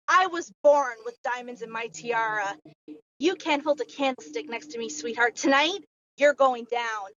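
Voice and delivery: slow, taunting heel promo; wrestling promo. Pretend. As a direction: taunt the rival like a cocky villain. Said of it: "could you cut one for me right now".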